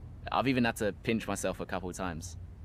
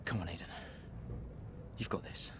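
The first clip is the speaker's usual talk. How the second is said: quiet self pep talk; 4 semitones lower, 11 dB quieter than usual. Acted. Driver psyches himself up alone.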